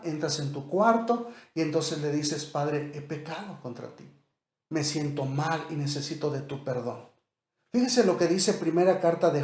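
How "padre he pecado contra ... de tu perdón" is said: soft, humble prayer to the Father; quiet confession prayer. Shown as a demonstration. Alone in your room, praying to God: soft, humble confession. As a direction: confess it quietly, head bowed.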